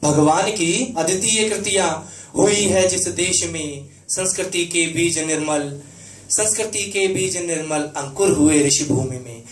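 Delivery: measured, rhythmic Hindi verse delivery; stately stage poetry with lingering line endings; poem recitation. Acted. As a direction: recite patriotic verse with each phrase deliberately shaped. Recites own patriotic poem.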